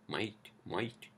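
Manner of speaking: "might" for mate, Australian style; testing out an Australian "mate"; Australian accent. Shown as a demonstration. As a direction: try "might" with an Aussie vowel and rising end. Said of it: "Is that how you say it in Australian".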